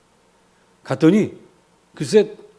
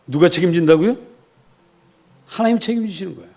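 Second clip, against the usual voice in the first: normal talking voice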